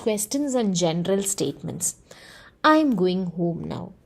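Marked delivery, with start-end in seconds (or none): 2.6-3.9 slow statement, the pitch drops at the end on now; falling intonation. Shown as a demonstration. Teacher shows a statement, slow falling intonation. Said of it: "So there is a falling intonation over there".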